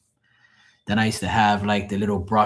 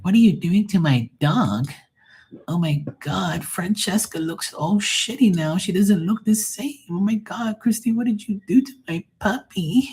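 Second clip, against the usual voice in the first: high, frantic upset owner voice; shrill upset dog owner; 11 semitones higher than usual. Retold or imitated. Dog owner to groomer, high and frantic outrage. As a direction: play the horrified customer squealing over her dog.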